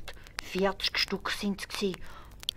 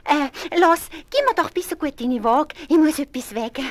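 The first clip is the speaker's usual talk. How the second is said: greedy wife; 8 semitones higher, 7 dB louder than usual. A narrator's reading. Wife alone with the gold, high gloating voice. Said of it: "und hat gesagt".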